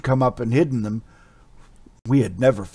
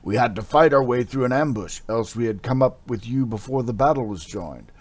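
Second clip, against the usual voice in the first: urgent warrior; 5 semitones higher, 9 dB louder than usual. Acted. Warrior scolds Amra urgently.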